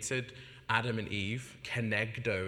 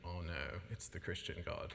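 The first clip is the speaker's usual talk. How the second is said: dismayed; 4 semitones lower, 8 dB quieter than usual. Retold or imitated. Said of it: "I'm like".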